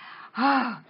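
high, breathy gasp after a scare; mock-relieved exhalation; frightened breath. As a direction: let out a shaken breath, acted. Acted breath after ghost fright.

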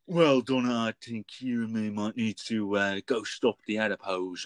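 gravelly Doctor voice, urgent; gravelly Tenth Doctor. Retold or imitated. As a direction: rasp it out like a frantic Tenth Doctor. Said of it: "I'm there just trying to go".

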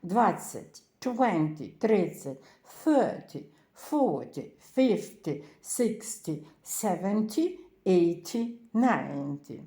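twenty stressed on the first syllable, twen; first-syllable stress drill. Shown as a demonstration. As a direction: lean on the first syllable of each tens word. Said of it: "наголос ставиться на перший склад".

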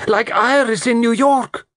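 very high, loud horrified cry. A narrator's reading. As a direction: cry out at the top of the register. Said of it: "Lola cried".

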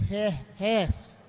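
PISSED stretched out very slowly; drawn-out emphasis. Real, not acted. Comic describing his angry wife, PISSED stretched long. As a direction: drag out the word PISSED. Drawing out how mad she was.

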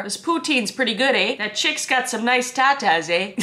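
lightly put-on Canadian accent, tagging on "eh"; easygoing Canadian with a questioning "eh"; Canadian "eh" demo. Shown as a demonstration. Vlogger giving examples of Canadian "eh", Canadian accent. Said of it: "Canadian lesson number one".

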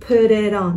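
"Put it on" run together as one word; linked words. Shown as a demonstration. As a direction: link "Put it on" like "pu-ri-don". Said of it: "đọc nối á".

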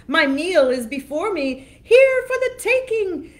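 high and loud, gloating troll; scratchy troll voice. Acted. Troll gloating over the middle goat, scratchy and loud. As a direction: savor the meal ahead, loudly. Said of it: "scritch, scratchy voice".

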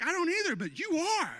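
high, mock-indignant reply; his own retort. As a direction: toss back the retort with a grin. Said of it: "And I'm like".

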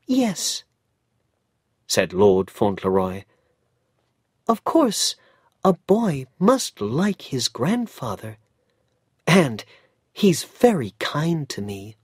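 put-on high childlike voice, gently sad; a small boy comforting his mother; Cedric, young boy. Cedric answers.

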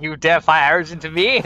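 loud, high mock indignation; hammed-up affronted villain line; imitated outraged enemy. Gamer voicing the enemy that got mad, mock outrage. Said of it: "It was like, it was like".

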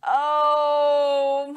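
loud pained snake moan. A narrator's reading. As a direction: groan with a tummy ache. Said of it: "moaned the snake".

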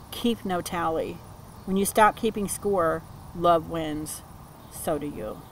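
card text read in a measured, deliberate reading voice; reading aloud. Acted. Reading the card's words aloud to her viewers, measured reading voice. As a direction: read it like an oracle's message to the listener.

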